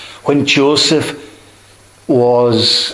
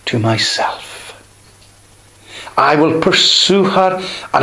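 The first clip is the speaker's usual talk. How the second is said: tender wooing. Acted. Preacher voicing God's tender words.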